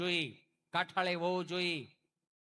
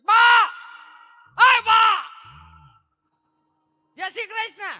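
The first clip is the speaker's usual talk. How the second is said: calling out; 12 semitones higher, 14 dB louder, slower than usual. Acted. Calling out to grandmother.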